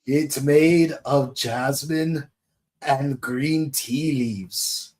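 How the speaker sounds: slow, lightly voiced kindly old uncle; Uncle Iroh voice. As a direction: gently offer tea like Iroh. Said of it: "Uncle Iroh to meet".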